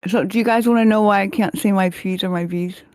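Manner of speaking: lips too stiff to close for P's; paralyzed lips. Real, not acted. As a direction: talk with numb, frozen lips. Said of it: "my lips are paralyzed".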